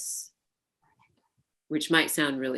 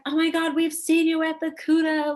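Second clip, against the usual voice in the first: put-on high, loud voice of a gushing young fan; young queer kid gushing to a burlesque star, high and giddy; gushing teen fan; 14 semitones higher, 7 dB louder than usual. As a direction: play a giddy kid who spotted a star. Kids gushing over seeing her.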